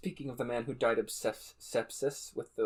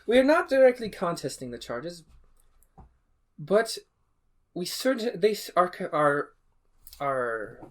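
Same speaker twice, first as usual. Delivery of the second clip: advocate's plea; 8 semitones higher, 6 dB louder than usual. Acted. NPC advocate defending before judge.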